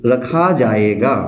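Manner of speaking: slow, word by word, as if writing on the board; spaced-out dictation for students. Shown as a demonstration. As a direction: dictate each word slowly with pauses. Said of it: "मैं लिखता हूँ".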